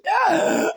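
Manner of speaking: loud, high burst of laughter; real laugh; high cackling laugh. Real, not acted. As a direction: crack up at the punchline. Laughing at own joke.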